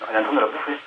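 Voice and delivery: shrill cartoonish voice; piping comic prank voice; squeaky high voice. Squeaky put-on voice on the call.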